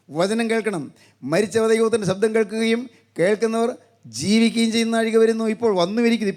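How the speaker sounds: sustained, declamatory sermon delivery; preacher's level, insistent intonation; preaching. Acted. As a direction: proclaim it steadily to the congregation.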